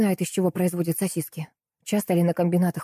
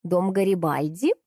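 brisk reporting. A narrator's reading. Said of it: "бойко отрапортовала бабуся".

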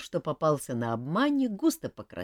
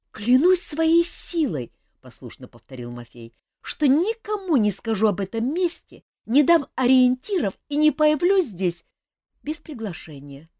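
put-on a boy reciting his vow obediently; solemn oath; 12 semitones higher, 9 dB louder than usual. Mafei repeating the oath for Hulian, high and loud.

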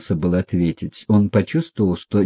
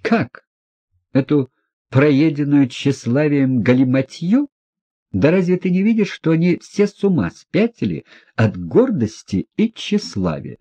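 higher, outraged scorn; indignant outburst; 6 semitones higher than usual. A narrator's reading. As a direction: fling the word back in disbelief. Лизавета возмущённо отвергает записку. (возмущённо, высоко и презрительно)

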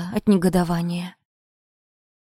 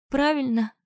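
easy agreement, pitched up; agreeing; 7 semitones higher than usual. A narrator's reading. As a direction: nod along as you say it. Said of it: "согласно кивнула Анжела".

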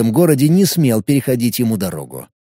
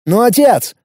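pleading; 8 semitones higher than usual. A narrator's reading. Son begs father.

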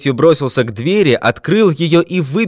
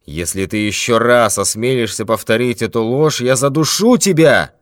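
terrible shout. Acted. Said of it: "Страшным голосом закричал".

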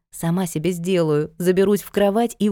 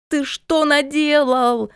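put-on high, slow, furious yell at the boy; shrieking mother's fury; angry scream; 8 semitones higher, slower than usual. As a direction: stretch out the outrage. Natka screams at misbehaving son.

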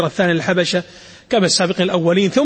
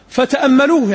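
astonished; 5 semitones higher, 3 dB louder than usual. Shown as a demonstration. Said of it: "يعني مستغربين".

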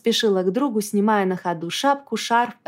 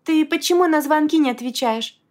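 higher, scared demand; anxious pressing; 8 semitones higher, 3 dB louder than usual. A narrator's reading. Frightened friend demanding why he ignored calls, anxious. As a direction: press him for answers, frightened. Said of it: "допытывалась, страшно перепугавшись".

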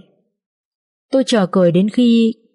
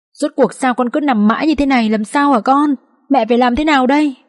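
sobbing mother; 2 semitones higher than usual. Acted. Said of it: "khóc nấc lên".

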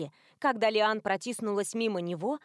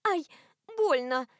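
mild yelp; 6 semitones higher than usual. A narrator's reading. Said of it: "вскрикнула она".

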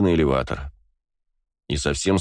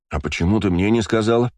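требовательно; 3 semitones higher than usual. Acted. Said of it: "требовательно проговорил Астарот".

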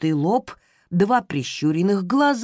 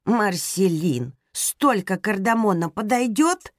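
irritated interruption; 2 semitones higher, slower than usual. Acted. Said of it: "с раздражением прервала".

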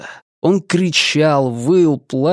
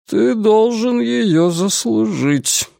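stern; 8 semitones higher, slower than usual. Acted. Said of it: "строго произнёс Деборд".

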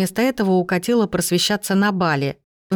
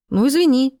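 sarcastic; 7 semitones higher, 4 dB louder than usual. A narrator's reading. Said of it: "съязвила мать".

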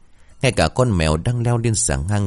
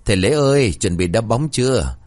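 calling out; 3 semitones higher than usual. Acted. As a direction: call out from the gate. Calling from the gate.

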